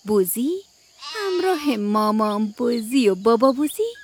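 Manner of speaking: put-on gentle bedtime story reading for kids; children's radio storyteller; storytelling narration. A narrator's reading. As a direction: read it like a bedtime tale.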